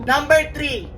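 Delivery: irritated teacher rushing the quiz; angry teacher. Acted. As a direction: bark the next number at the class. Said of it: "Ba't galit na galit siya?".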